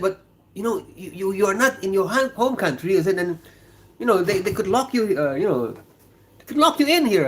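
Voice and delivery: retold warning.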